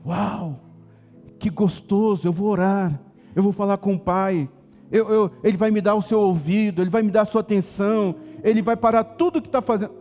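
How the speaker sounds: eager, building joy at praying; delighted anticipation. Acted. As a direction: savour the "Uau", then grow keener. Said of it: "seria a gente dizer assim".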